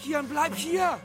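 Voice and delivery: sharp warning call. Acted. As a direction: call him back. Father warning son sharply.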